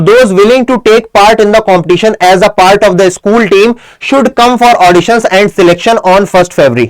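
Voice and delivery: very slow, weighted reading; slow dictation. Shown as a demonstration. Teacher reading the notice phrase aloud, very slow. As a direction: lay each word down slowly. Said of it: "है ना?".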